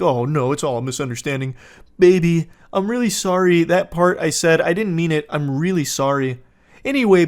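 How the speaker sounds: mock pleading apology; sweet talking. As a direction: lay on the sweet talk, imitating a grovelling boyfriend. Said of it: "to go really sweet talking".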